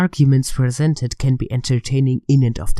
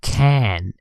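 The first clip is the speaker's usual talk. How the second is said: "can" set apart by a pause and drawn out; stress on can. Shown as a demonstration. Critic correcting rival on one word, emphatic "can". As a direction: lean on the word "can" by itself. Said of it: "Emphasis on can here".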